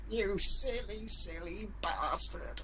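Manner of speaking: high, slow mock lament; mock grieving mother. Mother finding her son's body, high slow mock wail. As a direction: wail it like a mum over her son. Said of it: "go like".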